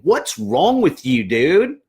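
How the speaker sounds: snapping at a peer who messed up, slow and irritated; exasperated. Shown as a demonstration. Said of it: "look at them and saying".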